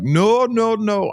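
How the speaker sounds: alarmed refusal. Retold or imitated. Prakash refusing the girl.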